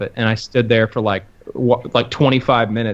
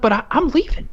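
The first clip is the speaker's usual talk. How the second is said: higher, indignant "leaving"; mock huffy exit; 12 semitones higher than usual. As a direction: announce it with rising irritation. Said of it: "I'm like".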